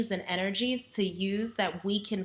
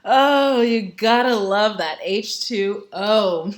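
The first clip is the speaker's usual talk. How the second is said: satisfied exclamation; 10 dB louder, slower than usual. Real, not acted. Savoring water after drinking.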